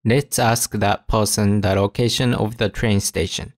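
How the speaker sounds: ordinary talk, nothing marked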